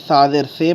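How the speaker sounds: "سا زیر سے" ending on say; learners' wrong reading. Retold or imitated. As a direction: quote the mistaken "سا زیر سے", ay instead of ee. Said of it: "پڑھتے تھے".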